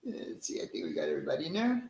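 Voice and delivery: fast whisper to himself; quick unvoiced self-talk while scanning the chat; whispered aside. Real, not acted. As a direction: mutter it under your breath, quickly. Muttering to himself while checking chat.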